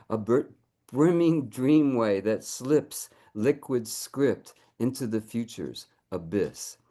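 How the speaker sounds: slow, deliberate poem reading; poetry reading. Acted. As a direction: savour each line as the muse. Reads poem in Erato's voice.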